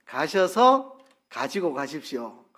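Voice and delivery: slow gloss. Shown as a demonstration. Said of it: "이 말입니다".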